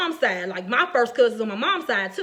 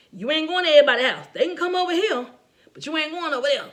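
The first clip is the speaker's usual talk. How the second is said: loud, fast, higher scolding mama; mama laying down the law, loud and quick; imitating strict mama; 4 semitones higher, 3 dB louder, faster than usual. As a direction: bark the rule like a strict mother. Mother laying down house rules.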